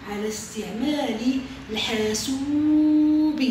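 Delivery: stretched, sing-song dictation. Shown as a demonstration. Teacher repeating the dictation, drawn out and sing-song. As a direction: draw each word out so the class can write. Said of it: "أكرر".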